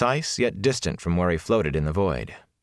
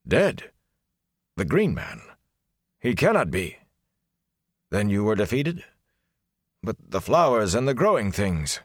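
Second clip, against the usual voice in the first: shocked disbelief; 3 semitones higher than usual. Acted. Lord stunned by news.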